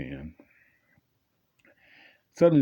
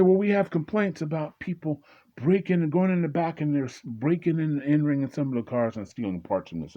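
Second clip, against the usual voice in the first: cop voice; 8 semitones higher than usual. Retold or imitated. Cop explains complaints.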